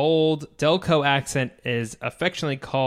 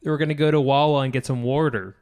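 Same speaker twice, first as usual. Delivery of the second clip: put-on Philadelphia-area Delco accent; a quick go at Delco hoagie mouth; 3 dB louder than usual. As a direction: try a Delco accent, local vowels on Wawa and water. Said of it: "do your best Delco accent".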